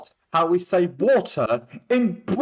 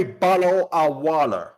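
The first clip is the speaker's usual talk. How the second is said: mock American accent. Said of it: "they don't even know how to say bottle of water".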